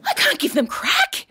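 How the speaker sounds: high, wailing protest; hammed-up helpless whine; mock anguish. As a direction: plead it like a tormented mother. Mock-anguished echo of co-host.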